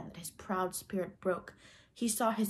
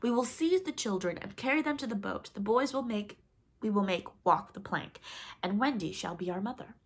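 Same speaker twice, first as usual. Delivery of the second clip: scheming pirate captain; 3 semitones higher than usual. Acted. Hook plotting aloud.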